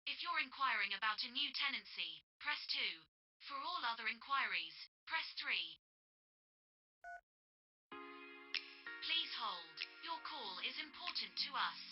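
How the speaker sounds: recorded automated phone message; flat recorded menu prompts down the line. Acted.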